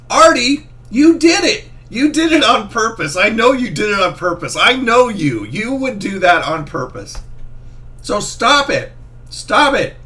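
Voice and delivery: high, loud teasing reproach; playful loud scolding. Real, not acted. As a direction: scold him half laughing.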